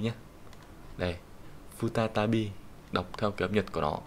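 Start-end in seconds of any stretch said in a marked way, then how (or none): 1.8-2.5 futatabi spelled out syllable by syllable; Japanese reading. Shown as a demonstration. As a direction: model futatabi clearly. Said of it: "cách đọc của nó sẽ là futatabi".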